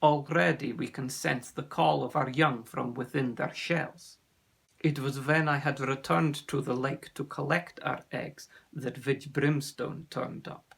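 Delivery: put-on accented, measured storyteller; grave sea serpent. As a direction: tell the danger gravely, with a lightly voiced foreign accent. Ossian tells his story.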